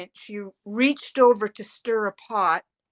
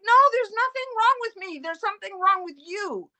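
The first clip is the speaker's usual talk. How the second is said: imitating mother; 10 semitones higher, 3 dB louder than usual. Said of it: "And she's like".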